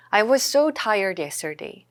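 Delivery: slow, smoother second take; slow repeat. Shown as a demonstration. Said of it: "I was죠". (천천히 한 번 더)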